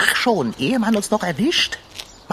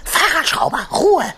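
high, loud urgent hush; sharp warning call; 10 semitones higher, 5 dB louder than usual. Acted.

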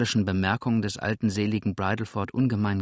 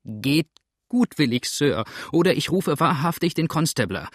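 high, forceful warning; indignant landlady's raised voice; calling out; 6 semitones higher, 5 dB louder than usual. Acted. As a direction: threaten the intruder from behind the door. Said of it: "rief die Frau".

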